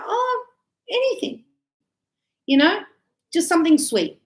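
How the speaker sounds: high-pitched easygoing voice; high casual whine. Retold or imitated. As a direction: pitch it up, carefree. Mum's vague request, high.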